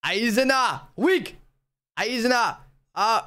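attempted Jamaican accent; Jamaican uncle accent. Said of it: "I'll do what my uncles say".

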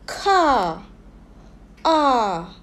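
car, then R, both with a long open "ah"; car and R as falling, isolated model sounds; demonstrating the sound. Shown as a demonstration. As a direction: draw out the "ah" in car and R. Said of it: "to be able to pronounce the R sound".

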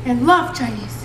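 talking while chewing food; mouth full. Real, not acted. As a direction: speak through a mouthful of salad. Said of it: "She's talking with her mouth full".

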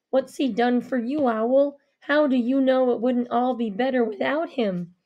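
put-on a wary man questioning the girl; low man challenging. Avery challenging Owl.

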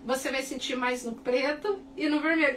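ordinary talk, nothing marked

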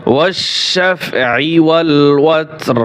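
والشفع والوتر drawn out slowly and chanted; slow Quran recitation. Shown as a demonstration. Teacher reciting the verse slowly for the class. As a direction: chant each word slowly and evenly. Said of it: "ওয়াও শিন জবর ওয়াশ".

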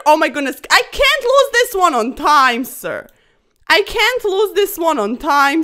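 loud, urgent panic; panicking against the clock; panicked urgency. Real, not acted. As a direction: rush it out in a time panic. Panicking on time.

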